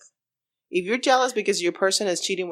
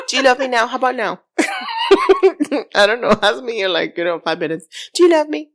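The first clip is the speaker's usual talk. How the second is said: mock needy whine, a bit higher; needy clinger; 6 semitones higher, 6 dB louder than usual. Host mocks a clingy partner asking for love, lightly high. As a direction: play the clingy partner begging for reassurance.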